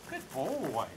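low, drawn-out praise for a dog. Real, not acted. Trainer to his dog after it comes, low praise. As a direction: drop the pitch and stretch the praise.

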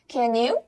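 CAN YOU blended into "can-nyoo"; linked sounds. Shown as a demonstration. Teacher reads the sentence to learners, linked sounds. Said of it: "Can和you在一起有个连读".

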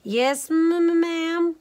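nervous stutter, high and loud; frightened stammered answer; stammering. A narrator's reading. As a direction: trip over the first sound in fright. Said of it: "Leola stammered".

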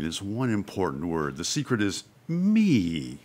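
smooth, controlled producer reassuring his darling, a touch of annoyance; self-composed but annoyed. Acted. Auditioning actor soothes a young star, composed but annoyed. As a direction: play it unruffled and self-important, drawing out the key words. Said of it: "self-composed but obviously annoyed".

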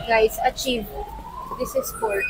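talking through hot mouthful; words round a hot bite; mouth full of hot food. Real, not acted. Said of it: "napaso ako". (may mainit na pagkain sa bibig)

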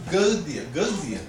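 "good deal" as Gaudia, first A stressed; accent on the A. Shown as a demonstration. Teacher showing where accent falls, "good deal" as stressed GAU-dia. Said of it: "The accent first falls".

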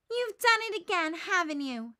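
loud, high accusing snap; fuming. Acted. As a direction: blame Linus, boiling over. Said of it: "Sally fumes".

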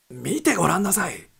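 urging. Acted. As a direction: beg them to look out. Wilson urges look.

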